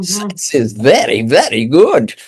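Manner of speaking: put-on old German lady with a thick accent. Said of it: "with a heavy German accent".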